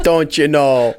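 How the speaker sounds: don't you know in a mock Midwestern accent, long o; sing-song Midwestern tease. Host teasing the guest, mock Minnesota don't you know. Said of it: "the accent came out".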